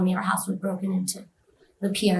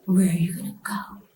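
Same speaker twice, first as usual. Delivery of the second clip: menacing taunt; 3 semitones lower than usual. Retold or imitated. Devil taunting her as she flees, menacing whisper.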